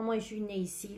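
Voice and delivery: lightly put-on American-born accent; choco accent. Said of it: "j'ai choqué ça bien". (léger accent choco à l'américaine)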